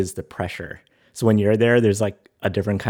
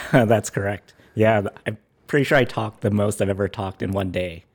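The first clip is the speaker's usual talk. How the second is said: hoarse from talking all day; raspy, worn-out voice; gravelly voice. Real, not acted. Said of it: "you have a little bit of a gravelly voice".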